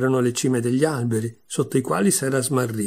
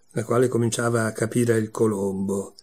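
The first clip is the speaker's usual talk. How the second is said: plain reading voice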